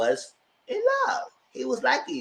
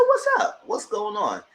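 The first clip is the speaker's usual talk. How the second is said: imitating Vonnie; 7 semitones higher than usual. Voicing Vonnie asking Keandre.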